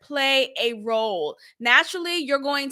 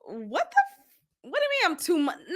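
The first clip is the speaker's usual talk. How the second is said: indignant; 4 semitones higher, 4 dB quieter than usual. Retold or imitated. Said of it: "it just struck me like".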